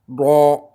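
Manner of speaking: heavy throaty "Do"; emphatic D from the throat. Shown as a demonstration. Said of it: "on dit do".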